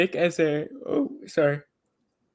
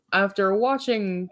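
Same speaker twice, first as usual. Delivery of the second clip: put-on halting try at a British accent, a bit higher and slow; British accent attempt; 6 semitones higher, slower than usual. Reading Jacob's final thoughts, a failed British accent. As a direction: reach for a British accent and give up. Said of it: "I can't do a British accent".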